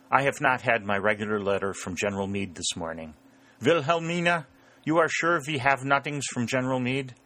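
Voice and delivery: put-on feigned innocence in a German accent; German-accented mock helpfulness; droll German farmer. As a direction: stonewall them as a German farmer, calling to the wife. German farmer, voiced by narrator.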